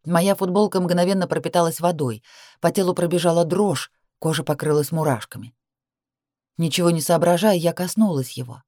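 ordinary delivery

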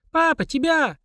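put-on high child calling out as she moves away; child's voice. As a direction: call out like a little girl walking off. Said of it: "удаляющийся детский голос".

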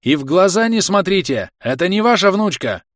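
loud, high warning shout; yelling from afar. Acted. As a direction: shout it from a distance. Pale man still shouting.

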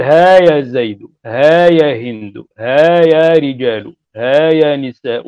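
ها يا زيد said slow and loud, each word spaced; teacher spells out ها يا زيد slowly, stressing ها; measured example forms. Shown as a demonstration. Teacher drilling students, slow emphatic recitation of ها forms. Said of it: "تقول".

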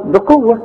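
بقوة begun with a clear bi; kasra on ba. Shown as a demonstration. Teacher correcting the vowel, bi at the start of بقوة. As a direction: say bi-quwwa for بقوة. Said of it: "ولازم تكسر الب".

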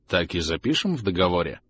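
soft, listless question; sluggish. Acted. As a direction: ask it with no energy. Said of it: "вяло спросил Арлекин".

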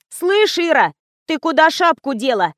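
exclaiming. A narrator's reading. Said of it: "воскликнула Лиза". (восклицает, высоко и громко)

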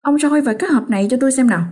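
wife pressing husband to shine the torch; urging. Acted. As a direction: push him to hurry. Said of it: "Mụ Thẩm lại giục giả".

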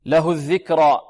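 الذكرى ending on free air, no glottal catch; open final alif. Shown as a demonstration. Teacher models the ending without hamza, open aa. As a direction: let the last aa of الذكرى run out. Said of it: "لا تنتهي بمخرج الهمزة".

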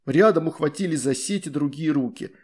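ordinary delivery

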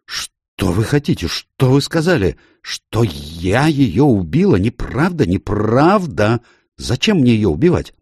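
high, heated denial, slowing on неправда; indignant outburst. A narrator's reading. Lola accused of murder, a high indignant outburst. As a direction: flare up, hurt and furious. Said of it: "Лола вспыхнула".

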